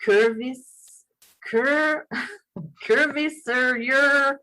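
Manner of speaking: slow broken try at Curviserior; fumbling a word. Real, not acted. Guest fumbling a name on air, slow and broken. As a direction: sound out Curviserior and trip on it. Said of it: "I'm gonna try to say this".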